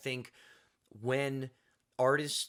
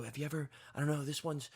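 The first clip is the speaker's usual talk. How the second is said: soft, quick, mopey emo singer; a hint of a brooding emo songwriter, softer; 4 dB quieter than usual. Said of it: "that's my emo voice".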